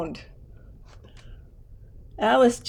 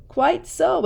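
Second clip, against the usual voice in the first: agreeing; 7 semitones higher, 4 dB louder than usual. Acted. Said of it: "agreed Uncle Theodore".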